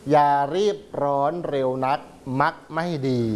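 verse reading. Acted. Teacher reads verse advising young women, measured recitation. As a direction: read it in short, spaced phrases.

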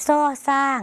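"ซ่อสร้าง" as the Lao letter name, s replacing Thai ch. Shown as a demonstration. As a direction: say "ซ่อสร้าง" with an s sound. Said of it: "เราก็จะเปลี่ยนเป็น".

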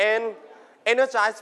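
"energized" with the stress on EN; stress on first syllable. Shown as a demonstration. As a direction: lean on the opening "en" of "energized". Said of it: "put the stress on the first syllable".

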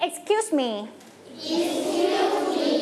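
teacher models Excuse me slowly; slow model phrase. Shown as a demonstration. Teacher models for class, slow and clear. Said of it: "say it together".

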